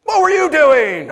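high, drawn-out shouted question; hammed-up shout of disbelief; mock parental yell. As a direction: holler it slowly, in exaggerated scolding. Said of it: "they yelled at me".

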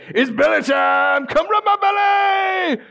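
high, drawn-out goofy dog shout; stupid happy dog. Acted. Dog to armed burglars breaking in, goofy eager squeal. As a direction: yelp it out like a clueless, overjoyed dog. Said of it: "the dog looks at them and goes".

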